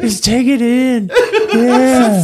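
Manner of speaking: high slow laughing coax; laughing imitation. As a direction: giggle it out high.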